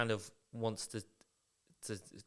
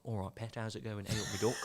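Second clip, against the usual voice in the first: soft, casual Nottingham greeting; Nottingham accent; 5 dB quieter, faster than usual. Acted. Simon greeting Eileen at work, Nottingham accent. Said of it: "a really good Nottingham accent".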